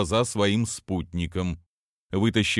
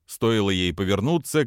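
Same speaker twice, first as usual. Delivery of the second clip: ordinary talk, nothing marked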